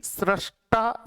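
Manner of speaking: सृष्टा stretched slowly with rising end; slow teacher's model of सृष्टा; slow demo of सृष्टा. Shown as a demonstration. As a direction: draw out सृष्टा to show the री sound. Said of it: "तो सृष्टा".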